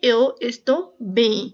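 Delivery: "Eu estou bem" stretched out slowly, ending in a nasal "bem"; very slow demo. Shown as a demonstration. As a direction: draw each word out for the class. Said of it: "So ये है".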